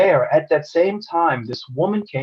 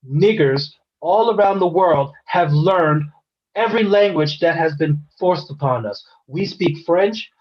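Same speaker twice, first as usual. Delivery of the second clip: retold firm rebuke; 2 semitones higher than usual. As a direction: set the customer straight with deliberate, emphatic phrasing. Retold firm rebuke of racist customer.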